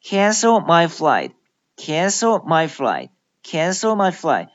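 "flight" with the final T unreleased; teacher's model of "flight" ending in a held T; silent final T. Shown as a demonstration. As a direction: stop the tongue on the T of "flight" without sounding it. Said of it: "但是并不发出音".

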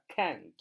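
can't with a firm stress on its æ vowel; can't pronounced with added weight, æ as in "cat". Shown as a demonstration. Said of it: "重音要读一".

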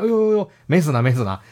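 high rippling yelp, then settling; mock startled fussing; acted flustered surprise. Dim disciple hurrying over on hearing master is alive, flustered relief.

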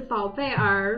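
宝贝儿 with 儿 as a separate 二 syllable; 宝贝儿 said unmerged, 贝 then a full 二; Guangxi erhua. Retold or imitated. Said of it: "他们就是".

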